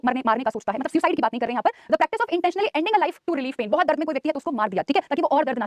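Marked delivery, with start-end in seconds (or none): 1.9-3.7 slow dictation. Shown as a demonstration. Teacher dictates English definition.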